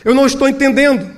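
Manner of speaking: high, impassioned protest to God; insistent prayer. Acted. Pastor questions God over the spider web, insistent. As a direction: plead in bewilderment, pressing each phrase. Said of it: "ele ora com mais insistência".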